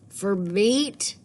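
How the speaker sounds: puzzled question. Acted. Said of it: "trying to understand".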